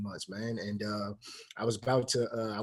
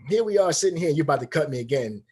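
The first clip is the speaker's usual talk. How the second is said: raised, frustrated complaint; retold yelling; 3 semitones higher, 5 dB louder than usual. Player confronting head coach over another cut, yelling. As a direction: start high and loud, as if telling off the boss. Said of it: "yelling at a head coach".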